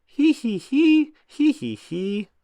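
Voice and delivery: squeaky high giggling; high giggles. A narrator's reading. Peppa and George wake early, high giggles.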